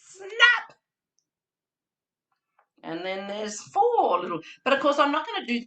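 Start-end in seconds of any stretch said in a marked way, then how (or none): 0.0-0.8 a loud high sudden Snap; big snap. Shown as a demonstration. Teacher redoes the crocodile's bite for the children, loud sudden snap. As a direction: snap it out to make them jump.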